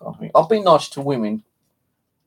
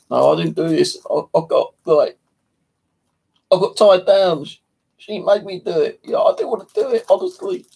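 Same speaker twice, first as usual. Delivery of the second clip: acted pleading, climbing into falsetto; hammed-up squeaky excuses; mock protesting; 8 semitones higher than usual. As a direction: plead your innocence, higher and higher. Acting out excuses to rescuers.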